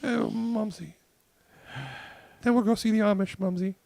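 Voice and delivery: put-on very high, loud, slow falsetto old lady. Host teases co-host's mother in a high slow old-lady falsetto. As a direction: croon at her like a doting old biddy. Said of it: "do Mumsy".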